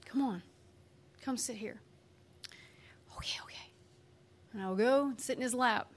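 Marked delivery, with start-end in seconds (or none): 0.0-1.8 soft, unhurried plea; gentle coaxing. Acted. God calling a child over, gently coaxing. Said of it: "And God is like". 3.2-3.7 hushed, reluctant whisper; whispered giving in. Acted. Child giving in to God's invitation, whispered.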